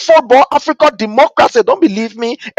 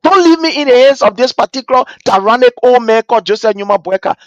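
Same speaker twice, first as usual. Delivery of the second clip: crying soul of Liberia; 4 semitones higher than usual. Pretend. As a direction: beg him not to abandon her. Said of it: "The soul of Liberia is crying and says".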